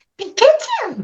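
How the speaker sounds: very high, bright, cheerful, squeaky creature cry. Asked during an interview for a happy Pikachu: happy Pikachu voice. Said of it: "I want to hear a happy Pikachu".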